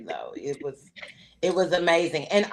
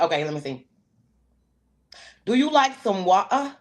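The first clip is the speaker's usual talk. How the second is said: English accent. Shown as a demonstration. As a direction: attempt your best English accent. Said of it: "I wanna hear your best accent".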